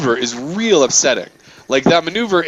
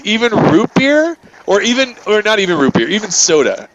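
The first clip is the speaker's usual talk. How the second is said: mock driver question; 6 semitones higher than usual. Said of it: "she goes".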